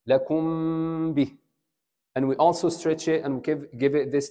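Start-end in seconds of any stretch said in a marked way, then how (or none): 0.1-1.4 لكم به with a long held nasal m before باء; ikhfa with ghunna. Shown as a demonstration. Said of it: "Just touch it". (لكم به بإخفاء وغنة ممدودة)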